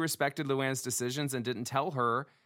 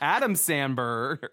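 put-on drunk slur; much slower than usual. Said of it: "That's my Dorinda".

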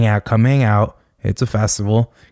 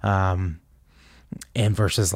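ordinary talk

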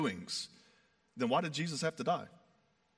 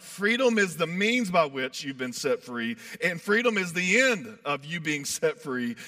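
emphatic, with FREEDOM punched louder; 3 dB louder than usual. Retold or imitated. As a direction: drive home the word Freedom each time. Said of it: "he's so emphatic".

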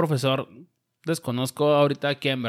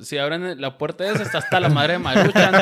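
laughing; 3 semitones higher, 5 dB louder than usual. Real, not acted. Teases friend about his noodle stash.

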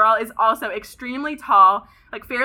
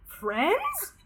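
high indignant question, pitch climbing; outraged disbelief; 7 semitones higher than usual. Retold or imitated. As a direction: scoff at the word Friends. Outraged at being offered friendship.

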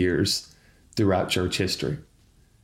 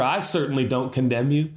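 sincere declaration; 2 semitones higher than usual. Shown as a demonstration. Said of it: "I want to say for Church Home".

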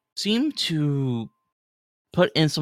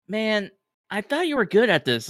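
high, fast teasing scoff; mocking crewman; 8 semitones higher than usual. Crewman teasing Rel for his mistake, high and mocking. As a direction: needle him for failing.

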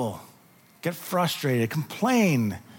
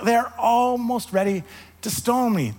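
fed up; 4 semitones higher than usual. Retold or imitated. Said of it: "He's fed up".

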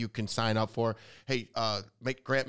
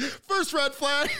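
slow, much higher mock shout of the warning; mock producer yell; 4 dB louder, much slower than usual. Host imitating producers yelling first red flag, slow mock shout. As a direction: call it out slowly like a producer yelling from off set. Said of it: "producers yelled".

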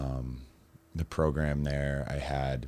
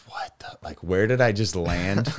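bewildered; 4 semitones higher, 4 dB louder than usual. Retold or imitated. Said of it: "and I'm like".

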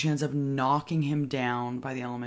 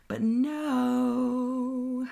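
but no; 10 semitones higher, 3 dB louder than usual. Retold or imitated. Twist in movie recap.

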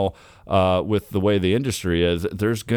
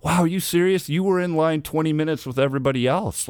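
incredulous; 6 semitones higher than usual. Retold or imitated. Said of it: "me standing in that line going".

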